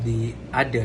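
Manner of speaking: "the other" with d for th; th fronting. Retold or imitated. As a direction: say "the other" as "dee ader". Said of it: "the guest speaker said".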